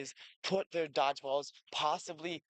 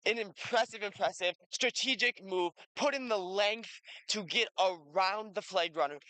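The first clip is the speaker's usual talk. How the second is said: excited commentary; 5 semitones higher than usual. Real, not acted. Big catch called live.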